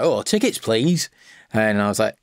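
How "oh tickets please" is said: higher-pitched conductor asking for tickets; train conductor. Retold or imitated. Conductor to passengers on a train, sing out the request. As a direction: call out like a conductor on his round. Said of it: "conductor came along and he was like".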